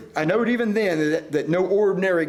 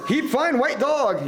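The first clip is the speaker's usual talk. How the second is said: slow hammed-up coolie; 6 semitones higher, slower than usual. A narrator's reading. Coolie voiced in story.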